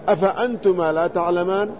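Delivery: "أفأنتما لا تعلمان" as a question with rising end; rhetorical question. Shown as a demonstration. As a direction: ask "أفأنتما لا تعلمان" to prompt agreement. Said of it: "ويكون استفهام تقرير".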